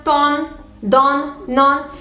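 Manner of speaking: "ton, don, non" with open ah vowels; hard a sound. Shown as a demonstration. Teacher listing the hard endings, "ton, don, non" with hard ah. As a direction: say "ton, don, non" as tahn, dahn, nahn. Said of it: "hard version with the a sound in them".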